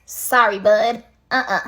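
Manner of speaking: low, blunt mock apology; dismissive refusal. Dad refusing his son another blessing, dismissive. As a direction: turn him down in short low bursts.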